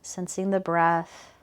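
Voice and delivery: calm, even body-scan guidance with unhurried phrasing; guided meditation. Real, not acted. Teacher guiding students' attention from heels up to shoulders, guided meditation. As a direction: gently lead attention through the body, leaving space between phrases.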